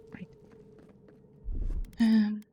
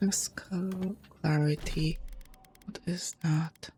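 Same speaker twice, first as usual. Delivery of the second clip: whispering; 7 dB quieter than usual. Real, not acted. Reading item text to self.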